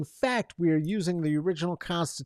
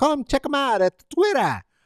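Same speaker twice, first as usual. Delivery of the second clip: exaggerated, over-the-top put-on Italian accent, pitched up; 8 semitones higher, 4 dB louder than usual. Podcast host plugging the show's Twitter: exaggerated Italian accent. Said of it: "hyper xenophobic version of an Italian accent".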